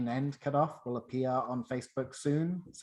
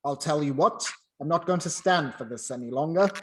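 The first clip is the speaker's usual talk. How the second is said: louder, pretending to be cross; mock angry; 5 dB louder, faster than usual. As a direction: keep the clerk thinking he's fired. Scrooge feigning anger.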